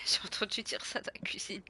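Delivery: whispered aside. Real, not acted. Streamer telling viewers about the cat, whispered. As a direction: whisper it secretly.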